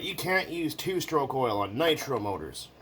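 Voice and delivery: slow snooty correction; mock know-it-all. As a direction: imitate a smug commenter. Mocking a commenter.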